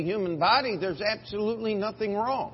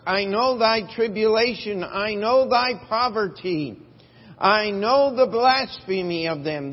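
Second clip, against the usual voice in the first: each know pressed, loud and high; stress on know; 4 semitones higher, 6 dB louder than usual. Shown as a demonstration. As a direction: hammer know in every line. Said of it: "follow the emphasis here".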